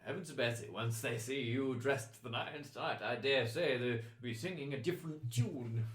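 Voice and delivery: lightly voiced, impressed nobleman; effusive courtier. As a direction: flatter them with courtly wonder. Game master plays admiring courtier.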